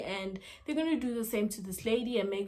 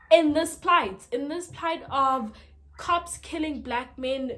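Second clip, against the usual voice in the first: raised, heated scolding from the mom; retelling a furious mother's rant, half-acted; angry mom; 2 semitones higher, 4 dB louder than usual. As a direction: mom tearing into him, getting louder. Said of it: "Spencer's mom's also pissed".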